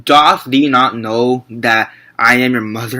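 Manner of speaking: slow, lightly mock Old English recital; a hint of Shakespearean delivery. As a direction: recite it slowly like a line from an old play. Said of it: "I was thinking Shakespearean".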